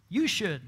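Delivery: YOU leaned on, falling; You stressed, pointing at the listener. Shown as a demonstration. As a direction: hit the word You. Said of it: "Not the other person".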